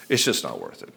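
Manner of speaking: low, weary giving-up; resigned. Retold or imitated. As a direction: say it deflated, after a sigh. Worn-down husband giving up.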